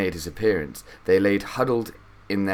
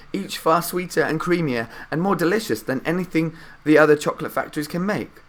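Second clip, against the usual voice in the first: put-on higher old man's voice, eager; Grandpa Joe enthusing; 8 semitones higher than usual. A narrator's reading. Grandpa Joe telling Charlie about Wonka's bars, eager old man's voice. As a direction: rattle it off like an excited grandpa.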